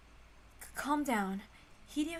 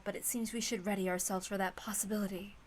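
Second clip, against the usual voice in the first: hushed, grave resignation; grim hush; 3 semitones lower, 5 dB quieter than usual. Acted. Kraus to Natsuhi by the door, grave and hushed. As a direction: let it sink low and heavy.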